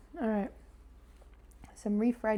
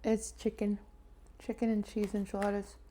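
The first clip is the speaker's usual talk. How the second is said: talking while swallowing food; swallowing between words, mouth full; swallowing mid sentence; 3 dB quieter than usual. Real, not acted. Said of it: "Sorry, you can hear me swallowing".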